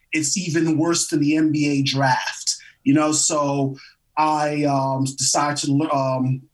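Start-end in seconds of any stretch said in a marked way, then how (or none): 4.2-6.4 stumbling over words; halting, tripping on the words; stammering. Real, not acted. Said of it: "I'm, like, stammering all over the place here".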